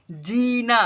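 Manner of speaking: "जीना" with the first syllable held long. Shown as a demonstration. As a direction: lengthen the जी in "जीना". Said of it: "ज को थोड़ा उच्चारण करेंगे अधिक". ("जीना" में जी को खींचकर बोलें)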